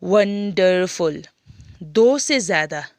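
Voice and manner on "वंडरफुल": "वंडरफुल" stretched slowly into three beats, वं-डर-फुल; syllable by syllable. Shown as a demonstration. Teacher counting three syllables for pupils, "वंडरफुल" slowly broken up. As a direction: draw out each syllable of "वंडरफुल". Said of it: "तीन syllable का है".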